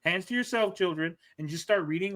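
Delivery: stern but sweet classroom voice; kindergarten teacher voice. Pretend. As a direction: gently scold a fidgety kid. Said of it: "like your kindergarten teacher".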